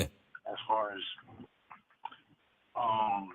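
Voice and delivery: faint, distant voice off mic; talking far from the microphone; from another room. Real, not acted. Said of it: "You sound like you're in another room".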